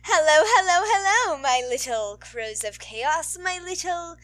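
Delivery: loud high hello to fans; bubbly outro greeting to listeners; excited greeting. Real, not acted. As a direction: call out a playful welcome. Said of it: "I don't even know what I'm saying".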